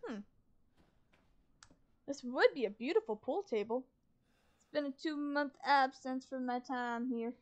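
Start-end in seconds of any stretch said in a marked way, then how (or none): 4.6-7.3 a light southern twang; southern accent. Acted. Gamer slipping into a southern accent, light. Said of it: "Why did I say that with a southern accent".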